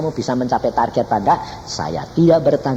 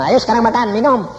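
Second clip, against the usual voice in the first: high, louder coaxing; cheerful urging; 11 semitones higher, 4 dB louder than usual. Retold or imitated. Son urging his father to eat, high and louder. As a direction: coax him to eat joyfully.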